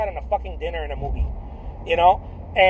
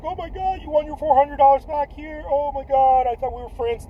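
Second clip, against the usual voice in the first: high, hammed-up whiny complaint, partly higher; mock crying whine; 6 semitones higher than usual. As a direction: pretend to whimper over the lost money. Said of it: "sit there and cry and be like".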